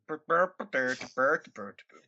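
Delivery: light Swedish Chef babble; mock Swedish accent. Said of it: "what's your Swedish accent".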